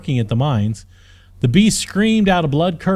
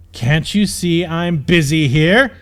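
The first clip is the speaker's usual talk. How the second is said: mild mock scream; 3 semitones higher, 4 dB louder, slower than usual. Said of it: "he screamed".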